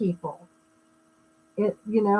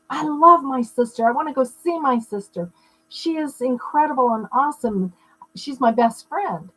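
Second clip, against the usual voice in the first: gushing; 4 semitones higher than usual. Retold or imitated. Quoting happy thoughts about sister.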